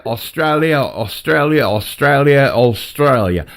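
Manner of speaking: repeated demo of broad Australian; broad Australian accent. Shown as a demonstration. Man coaching his friend on a proper broad Australian accent. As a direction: drill "Australia" in broadening Aussie vowels. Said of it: "broader if you wanted to do a proper Australian".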